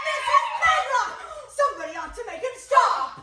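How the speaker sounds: high, loud cry for help; alarmed calling out. Acted. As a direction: shout for someone to stop him. Alarmed call over screaming boy.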